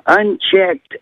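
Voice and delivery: ordinary talk, nothing marked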